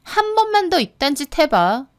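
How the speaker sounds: mocking, menacing warning; scornful intimidation; sneering threat. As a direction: gloat and threaten over a beaten opponent. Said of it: "비웃더라고요".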